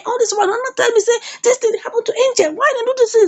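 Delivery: high-pitched retold complaint; acted dismay, pitched well up; upset protest. Kelly protests not being told.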